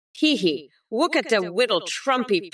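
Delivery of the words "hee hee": mock giggle. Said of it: "I sound like Rita Repua when I laugh".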